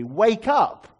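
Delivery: loud, high cry of Wake up!; urgent cry. Acted. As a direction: call out to a God who seems asleep. Voicing psalmist's cry to God.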